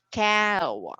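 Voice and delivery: "cow" stretched through both vowel sounds; drawn-out diphthong. Shown as a demonstration. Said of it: "It's a combination of the vowel sound".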